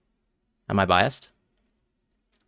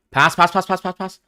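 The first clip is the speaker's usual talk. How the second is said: higher, rapid pleading for the pass; quick, pitched-up chant of pass; urgent urging; 8 semitones higher than usual. Real, not acted. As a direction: urge them on like a fan.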